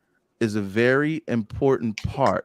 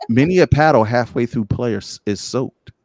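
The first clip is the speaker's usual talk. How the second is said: loud emphasis; 7 dB louder than usual. Real, not acted.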